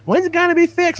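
high-pitched imitation of nagging coworkers; mock pestering. Imitates pestering people at work.

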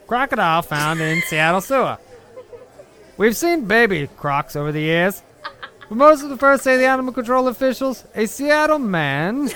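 put-on old-time New York newsreader accent. Reading a Seattle clipping aloud in his New York accent. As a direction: read it like an old radio man. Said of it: "should I still read in my New York accent?".

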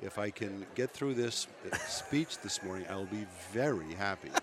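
hoarse with a cold; talking through a rumbly cold. Real, not acted. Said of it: "coming down with a bit of a rumbly cold thing".

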